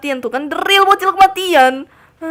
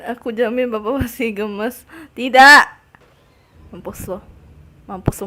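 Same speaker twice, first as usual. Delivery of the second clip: usual speaking voice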